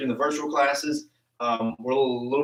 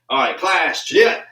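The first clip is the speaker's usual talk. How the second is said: barked class command; loud class call; 3 semitones higher, 5 dB louder, slower than usual. Real, not acted. Martial arts class call and response.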